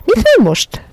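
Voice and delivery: very high, loud anxious ask; anxious question. A narrator's reading. Miss Lark anxiously asking Méri.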